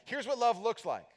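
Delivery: 느리고 힘주어 말하는 도입; slow emphatic setup. Shown as a demonstration. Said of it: "he'll say".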